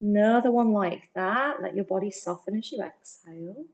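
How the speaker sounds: calm, gentle yoga teacher. Acted. Yoga teacher guiding breathing.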